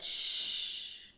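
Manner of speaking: hushed, slow whisper. A narrator's reading. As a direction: lean in and whisper the mystery. Narrator hushes the listener.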